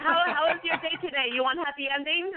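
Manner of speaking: lightly put-on Asian accent; mock Asian accent.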